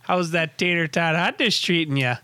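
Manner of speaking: playful put-on Minnesotan; folksy mock-Minnesota small talk; Minnesota accent. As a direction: tease with a broad Minnesota accent. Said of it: "you must be from Minnesota".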